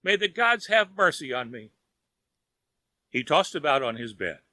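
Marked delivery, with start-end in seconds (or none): 0.0-1.7 high, pleading groan; a sick man praying for mercy; groaning plea. A narrator's reading. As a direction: beg the gods in a moan. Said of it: "he groaned".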